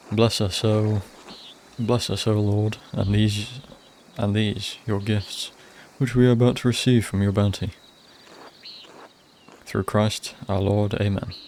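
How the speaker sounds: slow, measured mealtime prayer; saying grace. Acted. Player voicing monk saying grace before food, slow and measured. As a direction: pray over the bread, unhurried.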